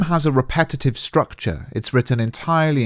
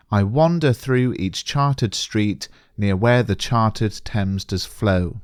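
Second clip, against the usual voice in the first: slow, measured reading of verse; poem reading; 2 semitones lower, slower than usual. Acted. Teacher reading Blake's opening lines to revising students, slow and measured. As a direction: read the lines slowly, like a recital.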